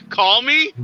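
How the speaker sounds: high, loud coy question; hammed-up coy come-on; mock flirty. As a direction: play a hopeful suitor, voice jumping up. Acts coy reply to doctor.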